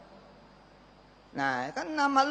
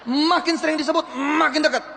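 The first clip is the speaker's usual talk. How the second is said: laughing; 6 semitones higher, 3 dB louder than usual. Real, not acted. Laughing through the slogan.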